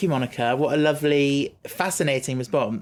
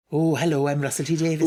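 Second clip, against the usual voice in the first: put-on Welsh accent; 3 semitones higher than usual. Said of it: "Do a Welsh accent for me".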